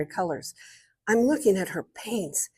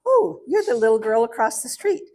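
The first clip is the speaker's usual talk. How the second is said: imitated British woman, slightly raised pitch; British accent; 3 semitones higher than usual. British neighbour greets the girl from across the street, imitated British accent. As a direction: put on a British lady's accent. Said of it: "in her very strong British accent".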